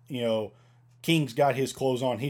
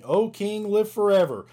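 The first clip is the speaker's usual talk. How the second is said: higher and louder, calling upward; Daniel calls up from the den, higher and louder; calling up to the king; 8 semitones higher, 5 dB louder than usual. Acted. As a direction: call up out of the pit to the king. Reading Daniel's reply in scripture.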